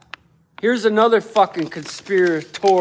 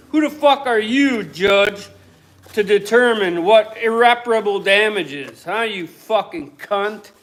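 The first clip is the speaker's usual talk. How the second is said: louder angry rant at the judge; blowing up; 5 dB louder than usual. Real, not acted. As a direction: let rip at the judge. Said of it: "I blew up there a little bit".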